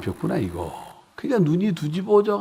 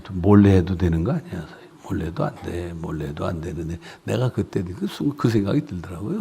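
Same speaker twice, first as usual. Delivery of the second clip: ordinary delivery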